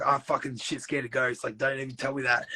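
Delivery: light imitated Irish accent. Retelling Mikey the Irishman's reaction, light Irish accent. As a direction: put on a bit of Irish. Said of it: "my Irish accent's gone now".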